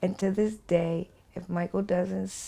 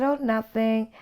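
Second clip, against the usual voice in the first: sing-song; 5 semitones higher than usual. Retold or imitated. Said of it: "I'm still sing-songing with him".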